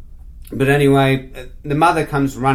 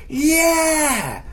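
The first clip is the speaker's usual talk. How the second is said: high, drawn-out mock crowd cheer; 13 semitones higher than usual. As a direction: whoop it like an eager audience. Imitates crowd cheering him on.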